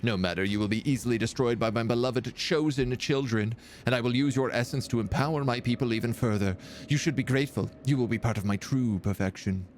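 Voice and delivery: haughty villain. Acted. Reads villain Nemu's speech.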